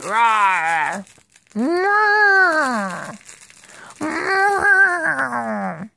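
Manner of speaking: playful pretend elephant roar for the baby; mock roar. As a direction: roar gently like a toy animal. Mom roars for toy elephant.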